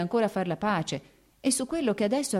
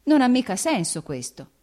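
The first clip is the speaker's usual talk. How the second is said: higher, louder protest of disbelief; baffled, pitch up; quasi stupore; 7 semitones higher, 6 dB louder than usual. A narrator's reading. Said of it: "disse Vronsky quasi con stupore". (incredulo, quasi stupito)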